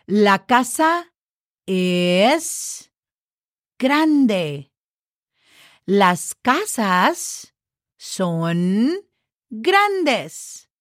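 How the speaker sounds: slow clear teacher reading; demo sentence. Shown as a demonstration. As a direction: stretch the final S on casas. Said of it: "Did you hear that?".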